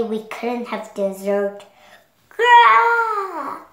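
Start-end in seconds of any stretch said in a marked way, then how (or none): 2.3-3.6 loud furious growl; angry roar. Acted. Anger hearing no dessert, furious roar. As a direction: erupt with rage. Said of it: "Anger stepped in whenever things were unfair".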